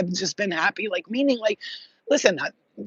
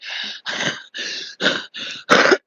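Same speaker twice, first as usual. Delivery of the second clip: mock laboured breathing; wordless puffs imitating a winded smoker; imitated smoker's breathing. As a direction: act out a smoker's heavy breaths.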